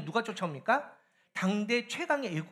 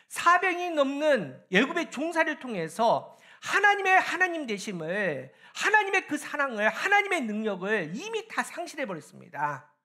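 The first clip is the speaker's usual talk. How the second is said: raised, insistent sermon delivery; forceful preaching; 6 semitones higher, 5 dB louder than usual. Real, not acted. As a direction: preach it out, high-pitched and pressing. (힘주어 외치는 설교)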